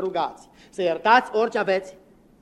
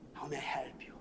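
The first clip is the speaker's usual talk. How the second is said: mock receptionist; 4 semitones lower, 15 dB quieter than usual. Mimicking American receptionist.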